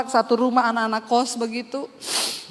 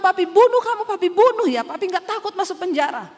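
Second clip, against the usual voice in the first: high, loud threatening father; father's death threat; 6 semitones higher, 3 dB louder than usual. Retold or imitated. Father threatening his daughter with death, high and loud. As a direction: bark the threat like an enraged father.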